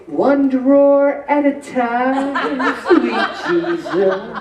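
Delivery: laughing through a slow punchline. Retold or imitated. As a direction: draw it out slowly with a laugh. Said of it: "I say".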